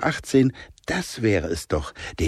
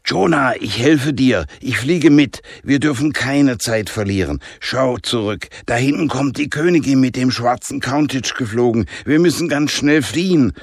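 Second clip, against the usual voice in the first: put-on urgent girl; 5 semitones higher than usual. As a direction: push them to hurry before the queen arrives. Danica drängt zur Flucht. (Danica drängt Jonah zur Flucht, hoch und dringlich)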